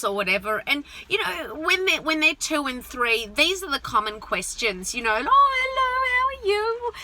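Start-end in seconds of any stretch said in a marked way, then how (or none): 5.1-6.9 put-on talking to a toddler. Friends greeting toddler sing-song.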